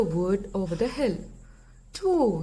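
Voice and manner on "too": owl toot. Acted. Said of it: "he tooted".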